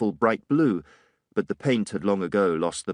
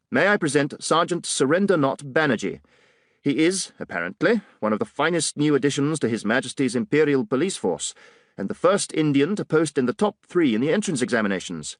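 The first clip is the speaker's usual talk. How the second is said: a hint of a superior British officer; condescending officer; 5 semitones higher than usual. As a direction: talk down to him lightly, old boy. Digby introduces sergeant sardonically.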